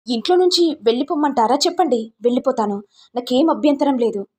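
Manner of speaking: mildly heated, defiant son. Acted. Son threatening his mother he'll leave, mildly heated and defiant.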